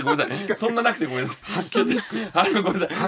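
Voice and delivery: laughing apology. Real, not acted. Apologizing for a weak story.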